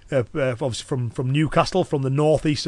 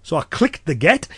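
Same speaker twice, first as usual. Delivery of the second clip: Cumbrian dialect. Shown as a demonstration. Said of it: "I gave a phrase in Cumbrian".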